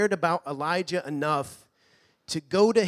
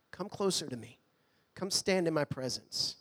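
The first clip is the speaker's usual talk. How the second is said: soft, gentle call; 5 dB quieter than usual. Acted. God calling gently, softer.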